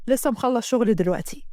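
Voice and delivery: lightly voiced caring man; apologetic lover. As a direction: excuse yourself, then check on her gently.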